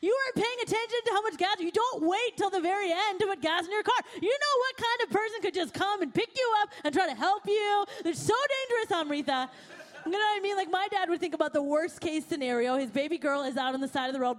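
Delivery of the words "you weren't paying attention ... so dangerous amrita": imitating an upset father lecturing his daughter, pitch up; ticked-off dad. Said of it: "he would have been real ticked".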